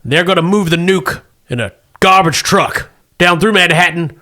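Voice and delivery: military officer giving a briefing; briskly brief the troops; Marine captain voice. Acted.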